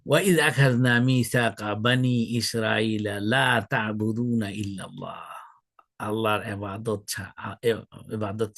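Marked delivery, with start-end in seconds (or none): 0.1-5.2 slow, measured Arabic recitation with drawn-out vowels; Quran recitation. Acted.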